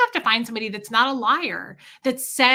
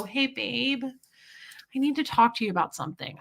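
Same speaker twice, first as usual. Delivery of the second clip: gentle approach; 3 semitones higher, 3 dB quieter than usual. Retold or imitated. Approaching partner gently after fights.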